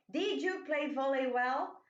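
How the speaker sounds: Did stressed, rising at the end; question tune. Shown as a demonstration. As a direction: ask it, rising. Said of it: "na forma interrogativa". (pergunta com entonação ascendente)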